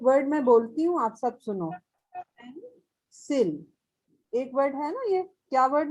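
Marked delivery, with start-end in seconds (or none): 2.2-3.7 पेंसिल said slowly as two parts, पेन and सिल; split in syllables. Shown as a demonstration. Teacher gives children a word to listen to, पेंसिल slowly split. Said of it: "पेंसिल को हम दो parts में बोल सकते हैं".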